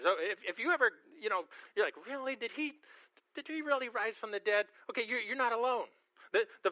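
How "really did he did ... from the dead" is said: Really lifted higher, a mild skeptical question; light doubt. Retold or imitated. Preacher voicing a doubting listener about resurrection, mild incredulity. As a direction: ask it with gentle disbelief.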